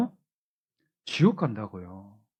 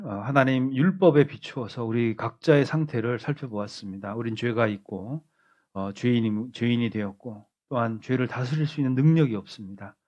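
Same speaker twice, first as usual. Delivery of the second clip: closing prayer. Acted. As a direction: pray over the church, gently and humbly.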